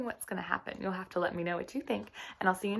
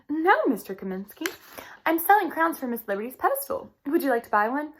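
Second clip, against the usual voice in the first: put-on higher, louder child voice selling crowns; eager little girl; 5 semitones higher, 5 dB louder than usual. Lily offering a crown to Mister Kaminsky, eager and high. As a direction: pitch it up like an eager young girl.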